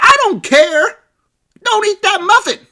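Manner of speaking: hammed-up dad shouting at his daughter; mock yelling dad. Father insists.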